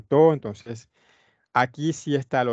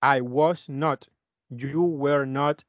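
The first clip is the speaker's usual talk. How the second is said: slow model reading; much slower than usual. Shown as a demonstration. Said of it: "voy a poner un not y ya".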